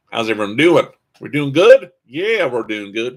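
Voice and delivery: faint Southern accent, lively questioning lilt; vaguely Southern accent. Real, not acted. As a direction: slip into a not-very-Southern twang. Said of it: "don't know why I suddenly have an accent".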